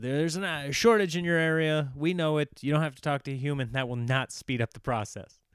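robot voice. Retold or imitated. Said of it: "that's my robot voice".

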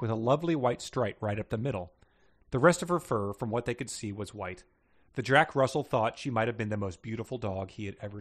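measured read-aloud storytelling; story narration. A narrator's reading.

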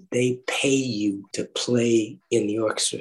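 slow and deliberate. Real, not acted. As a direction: spell it out slowly. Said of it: "I just wanna make sure I understood".

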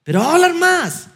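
high, whiny protest; mock whiny objection. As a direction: squeak it out like a nervous husband. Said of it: "Luis, pero es que si yo hago preguntas".

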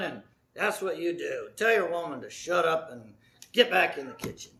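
a hint of a smug tempter voice; lightly mocking worldly voice urging men; voice of the culture. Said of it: "The culture says".

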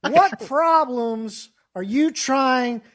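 a light hint of Doctor Phil, very slow. Mimicking Doctor Phil to the actor, slow TV-host voice. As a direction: drawl it slow like a TV therapist. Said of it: "he shows up and is like".

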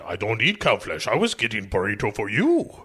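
lightly voiced orc; a hint of a put-on orc voice; Nick the Orc. Orc defending his lunch run to his partner, lightly put-on creature voice. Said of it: "Nick the Orc points out".

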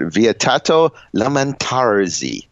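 slow, hammed-up Italian accent. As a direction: roll it out like an Italian. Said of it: "I can't do an Italian accent".

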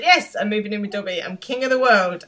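like he's just won the lottery; gleeful triumph. Retold or imitated. Mark gleeful over Dobby moving in.

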